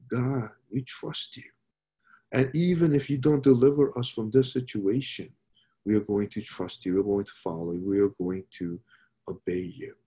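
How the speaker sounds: softly voiced humble prayer, dropping low; a hushed, sincere prayer of trust; quiet trusting prayer. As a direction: pray it gently, surrendering everything. Voicing the friends' trusting prayer.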